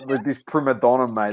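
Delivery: mock the old man sneering at a prima donna, slowly; imitating grandfather. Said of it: "You'd say".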